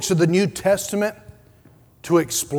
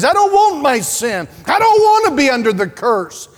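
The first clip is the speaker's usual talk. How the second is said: voicing a repentant sinner; 4 semitones higher, 4 dB louder than usual. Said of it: "Those who recognize".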